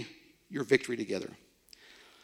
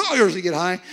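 whiny high voice; 4 semitones higher, 5 dB louder than usual. Retold or imitated. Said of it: "a kind of a whiny voice".

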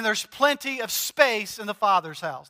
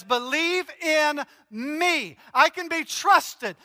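higher, slow, emphatic preaching; rising preaching intensity; 5 semitones higher, slower than usual. Acted. Pastor assuring the congregation, higher and slow. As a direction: build it to a ringing climax. Pastor climaxing, voicing Jesus.

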